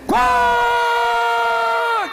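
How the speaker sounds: very high, long squawking quack; high-pitched quack held long; big duck quack. Acted. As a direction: burst out with a drawn-out squawk. Third duck's big quack after hush.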